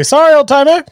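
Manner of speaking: high, loud mock-sorry call; cheeky apology. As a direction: sing out a cheeky fake apology. Rogue mocks the old man.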